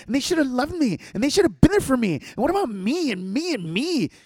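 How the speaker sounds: a hint of whining mockery; mock the self-pitying reviewer lightly; whiny entitled customer. Mocking Yelp reviewers, mildly whiny sing-song. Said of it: "all I read is".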